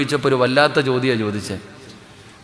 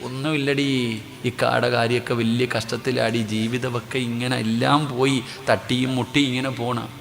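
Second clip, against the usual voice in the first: mock moaning complaint; 4 dB quieter than usual. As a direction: play the hard-done-by woman quietly. Woman complaining about hard life.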